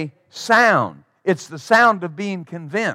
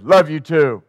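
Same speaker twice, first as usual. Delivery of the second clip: flat; 3 semitones lower than usual. Retold or imitated. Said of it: "You don't sound like it".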